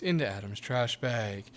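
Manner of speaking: slow, dramatic clickbait narration; early YouTuber voice. Retold or imitated. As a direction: ham up the narrator line slowly. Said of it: "like, early YouTuber voice".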